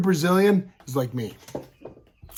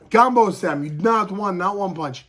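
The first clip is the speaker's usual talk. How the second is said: mildly raised, higher coaching call; imitating a cornerman calling out corrections; retold sideline shout, kept moderate; coach calling orders; 5 semitones higher, 3 dB louder than usual.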